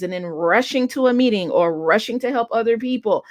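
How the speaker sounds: a mild echo of the desperate wail; understated reliving of an exhausted wail; retold wail. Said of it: "uncontrollable wailing of".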